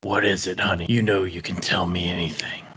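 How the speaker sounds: a man who thinks this is how cyborgs talk; put-on cyborg voice. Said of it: "you've just talked like that".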